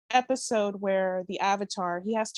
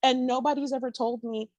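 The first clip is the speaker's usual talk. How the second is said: exasperated disbelief; 6 semitones higher than usual. Retold or imitated. Recalling her confusion to the host, higher exasperated disbelief. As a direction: demand an answer from the universe, incredulous.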